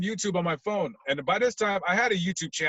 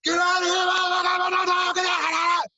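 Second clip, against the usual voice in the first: much higher and louder yelled warning; retold screaming; 7 dB louder than usual. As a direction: scream it like the crowd across the street. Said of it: "just people started screaming".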